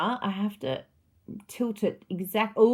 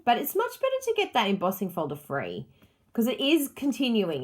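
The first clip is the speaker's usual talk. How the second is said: normal talking voice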